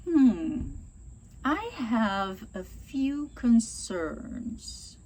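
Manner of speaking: very slow, careful and tactful; thoughtful, unhurried objection; calm and polite. Shown as a demonstration. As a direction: gently raise your doubts. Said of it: "ser mais calmo, não ser agressivo".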